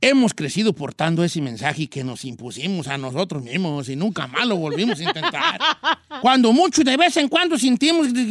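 exaggerated book-reading voice with swinging pitch; showy, singsong read-aloud; audiobook narrator audition. Shown as a demonstration. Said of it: "Así te lo leería yo".

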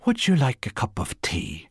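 politely. Acted. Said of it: "said Bernice politely".

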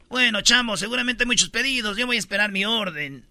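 imitated Venezuelan accent. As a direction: say it as a Venezuelan diner. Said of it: "Y dicen los venezolanos".

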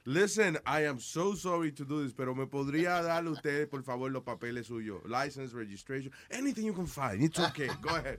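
overly polite, apologetic cop at a traffic stop. Pretend. Polite cop to a stopped driver, overly courteous and apologetic.

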